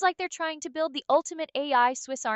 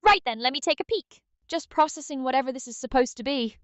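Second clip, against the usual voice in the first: lightly put-on British accent, cheeky; a hint of a cheery British accent. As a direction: play it as a jokey Brit. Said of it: "can British Aria come out".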